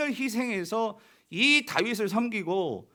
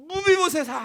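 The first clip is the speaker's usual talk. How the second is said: a higher, tearful call of the name with a falling end; David calling the lost son's name, near to weeping; trembling tearful call; 10 semitones higher, 5 dB louder than usual. Retold or imitated. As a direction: call his name with eyes full of tears. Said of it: "떨리는 목소리로 정말 눈물이 그렁그렁하면서".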